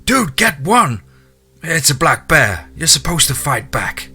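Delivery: high, urgent shouted commands; screaming. A narrator's reading. Hunter screams at fleeing man to grab a tool, urgent high shouting. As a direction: shout urgently to make him fight back. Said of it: "I started screaming right back to the man".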